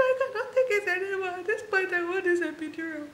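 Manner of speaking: high, loud pained yell; desperate shout. Retold or imitated. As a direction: yell for the epidural at the end of your rope. Repeats epidural demand louder.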